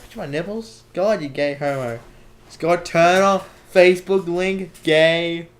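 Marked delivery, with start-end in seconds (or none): 2.5-5.5 teasing callout. Acted. Teasing Scott loudly.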